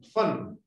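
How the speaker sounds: FUN with a short, quick vowel; sonido corto. Shown as a demonstration. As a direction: keep the vowel in FUN brief. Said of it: "¿Cuál es corto y cuál es largo?". (FUN con vocal corta)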